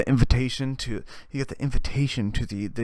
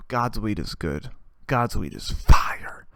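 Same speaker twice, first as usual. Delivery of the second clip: slow, low stoner exhale; awed stoner; 4 semitones lower, slower than usual. Acted. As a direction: savor each word after a big hit. Savoring a big hit of weed.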